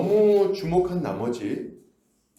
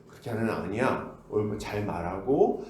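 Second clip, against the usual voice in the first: gentle correcting; 6 semitones lower, 4 dB quieter than usual. Retold or imitated. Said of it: "이렇게 지도를 할 거예요".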